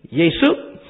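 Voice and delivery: Yesu, the Indian form, said plainly. Shown as a demonstration. Preacher giving the Indian name for Jesus. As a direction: say it Yay-soo.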